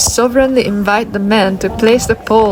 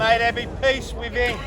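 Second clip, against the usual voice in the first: ritual call; 10 dB quieter than usual. Acted. Leader calls softly.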